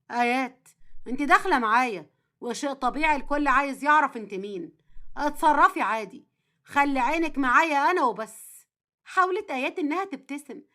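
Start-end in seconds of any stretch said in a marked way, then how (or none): 0.1-8.7 a hint of a steady husband, slightly lowered; lightly voiced reassuring husband. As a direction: lightly play a husband steadying his nervous wife.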